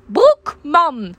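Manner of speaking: high, loud repeating customer; old lady voice. Retold or imitated. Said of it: "Ze bleef het maar de hele tijd herhalen".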